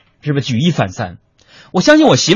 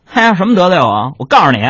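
lightly voiced street thug; 6 semitones higher than usual. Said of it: "这几个小青年说".

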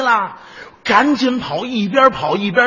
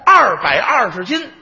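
excited shout. Retold or imitated. Thrilled at his weight.

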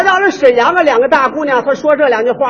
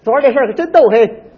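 Beijing speech; faster than usual. Retold or imitated. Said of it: "北京人这样说".

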